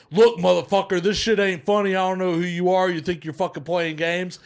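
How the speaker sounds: retold angry rant. Strung-along drug buyer messaging the phone owner, angry. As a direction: tell them off as if fed up.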